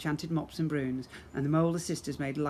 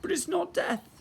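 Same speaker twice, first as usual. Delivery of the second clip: pirate captain voice. Acted. Pirate teasing prince.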